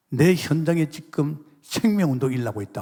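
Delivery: normal talking voice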